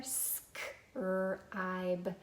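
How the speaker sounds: "Scribe" stretched slowly sound by sound. Shown as a demonstration. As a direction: separate s, k, r and the ending in "Scribe". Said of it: "Did you get all of those sounds".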